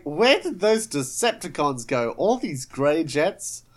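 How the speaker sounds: exasperated searcher, rising to a loud wail; Fanzone. Acted. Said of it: "So, Fanzone turns up at the airport".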